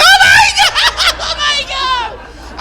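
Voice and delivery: very high comic wail; mock hysterical sobbing; hammed-up hard crying. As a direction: bawl it out in overblown tears. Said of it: "People, I am crying so hard".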